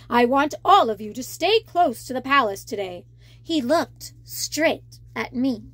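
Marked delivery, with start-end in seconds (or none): 0.1-3.0 deep, stern royal warning; warning king. Acted. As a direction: warn them like a stern king. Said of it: "King Triton warned".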